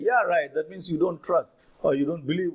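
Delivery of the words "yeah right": quoted "yeah, right" with mild sarcasm; a touch of disbelief, as a teaching example; sarcastic. Shown as a demonstration. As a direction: lightly demonstrate sarcastic doubt. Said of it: "that's a very sarcastic way of saying".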